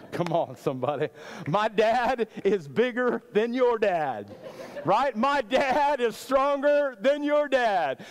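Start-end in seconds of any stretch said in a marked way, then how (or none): 1.5-8.0 slow, higher schoolyard brag; kid's boast. Retold or imitated. Preacher mimicking a boy bragging about his dad, slow and higher. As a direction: boast like a kid on the playground.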